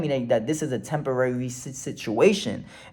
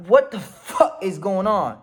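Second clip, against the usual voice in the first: slow, higher bewildered question; laughing disbelief; 4 semitones higher than usual. Retold or imitated. Driver on ground surrounded by cops, laughing disbelief. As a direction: draw it out through a laugh.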